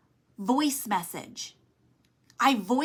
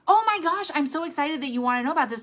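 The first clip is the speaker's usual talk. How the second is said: higher, quick gush of excitement; bubbly excitement; 4 semitones higher, faster than usual. Shown as a demonstration. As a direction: greet the curious prospect brightly. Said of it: "So what's that card in your mouth?".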